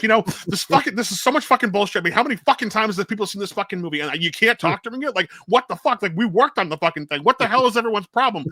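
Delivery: high, loud mock-angry tirade; imitated angry rant. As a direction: act out someone cussing people out. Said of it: "and he's angry".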